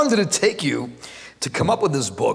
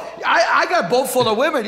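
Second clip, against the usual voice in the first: commercial guy; 8 semitones higher than usual. Retold or imitated. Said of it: "They, they say".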